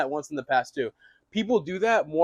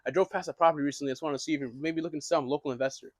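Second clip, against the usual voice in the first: confused-sounding opener; 4 dB quieter, faster than usual. Shown as a demonstration. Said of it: "or you can just be like".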